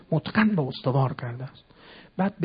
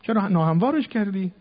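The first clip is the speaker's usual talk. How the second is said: high, loud, fast indignant yelling; shrill-free mock outrage, pitched way up and loud; fool shouting; 8 semitones higher, 4 dB louder than usual. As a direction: berate the digger like an outraged fool. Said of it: "یه ابلهی داد زد".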